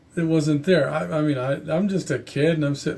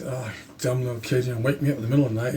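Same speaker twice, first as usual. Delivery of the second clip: annoyed grumble; 3 semitones lower, much faster than usual. Retold or imitated. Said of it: "he was very annoyed".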